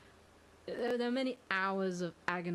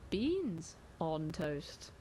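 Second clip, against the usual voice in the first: slow announcement; 2 semitones lower, much slower than usual. Acted. Announcing a nominee.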